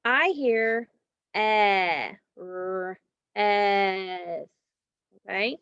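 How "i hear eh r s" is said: eh, r-, s split into separate sounds; sounding out. Shown as a demonstration. Teacher to class, sounding out rest. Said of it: "sounds out rest".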